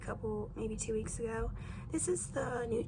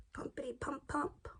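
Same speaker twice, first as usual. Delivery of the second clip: whispered sing-song; 2 semitones higher, 3 dB quieter than usual. Real, not acted. Pumping out the primer.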